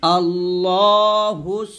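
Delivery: very slow drawn-out আল্লাহুস; slow recitation. Shown as a demonstration. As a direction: stretch the word long. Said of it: "এরকম".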